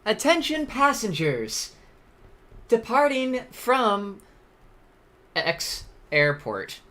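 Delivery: high, slow airport PA voice; gate agent announcement. Pretend. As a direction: page the passengers like an airport announcer. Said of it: "Gotta change that".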